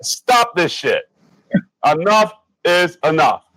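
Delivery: openly mad and heated; real anger. Real, not acted. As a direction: admit you're pissed, fired up. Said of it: "I'm mad".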